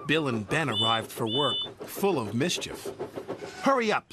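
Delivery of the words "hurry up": high, louder impatient snap; snapped. Acted. Grumpy crane hurrying the engines, sharp snap. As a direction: bark at them to get moving. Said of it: "snapped Cranky".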